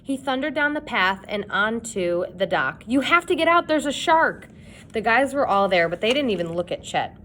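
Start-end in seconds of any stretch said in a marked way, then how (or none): 2.9-4.5 high, loud panicked yell; frantic shout. A narrator's reading. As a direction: scream the warning. Warning friends of a shark.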